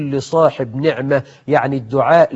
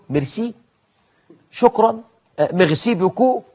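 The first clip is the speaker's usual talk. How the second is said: mock French accent; 6 semitones higher, 5 dB quieter than usual. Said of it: "يعني فرانسوا ميتران".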